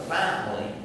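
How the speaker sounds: "Family" with the opening syllable stressed; stress on first syllable. Shown as a demonstration. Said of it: "has it in the first syllable".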